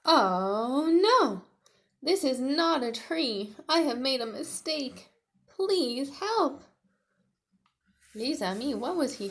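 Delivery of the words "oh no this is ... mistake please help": much higher, louder mock alarm; Tiny alarmed. Tiny lifted by a pterodactyl, mock alarm. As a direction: cry out in storybook panic.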